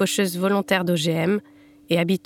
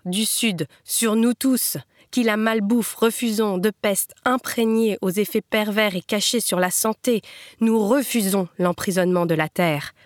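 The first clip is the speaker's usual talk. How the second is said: emphatic verse reading with raised refusals; protest poem recitation. Acted. Reader voicing crop cutters refusing GMOs, emphatic poem recitation.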